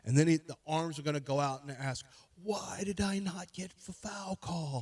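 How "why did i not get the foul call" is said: whining about a foul call; whiny mock player. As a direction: mimic a player begging for the whistle.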